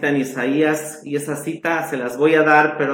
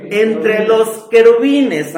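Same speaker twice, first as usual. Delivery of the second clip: preaching emphasis; 7 semitones higher, 7 dB louder, slower than usual. Acted. Preacher answers his own question.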